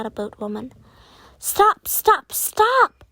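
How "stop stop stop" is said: shouting stop. A narrator's reading. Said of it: "she cried".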